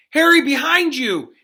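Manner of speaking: full-throated yell across the pitch; anguished yell. Acted. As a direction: scream his name in alarm. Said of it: "Wood's anguished yell".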